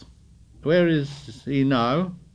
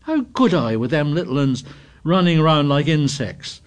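high, loud, rushing protest; indignant defence; 7 semitones higher, 5 dB louder than usual. A narrator's reading. Piggy protesting to Ralph, higher and louder. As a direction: climb into outrage.

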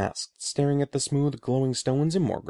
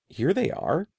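proud announcement; 7 semitones higher than usual. A narrator's reading. Eddie proudly shows stolen stones.

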